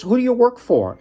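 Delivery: high, loud sly fox voice; a crafty fox quizzing the servants; fox's question. Retold or imitated.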